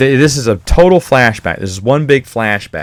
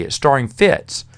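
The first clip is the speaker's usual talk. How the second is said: mock outraged; 3 semitones higher than usual. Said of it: "And you're like".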